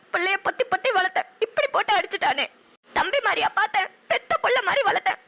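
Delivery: tearful lament. Acted. Laments brother was beaten.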